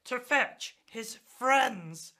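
slow, panting delivery; breathless gasping. Acted. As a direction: gasp the words out slowly. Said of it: "gasped Pig".

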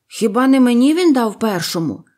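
indignant objection. Acted. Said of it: "заперечив старший".

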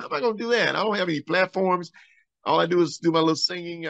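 can't see how it could happen; bewildered protest. Retold or imitated. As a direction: singer questioning God's call, bewildered. Speaker answering God, bewildered.

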